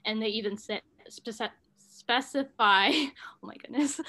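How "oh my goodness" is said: laughing whisper. Real, not acted. Laughing aside mid-history.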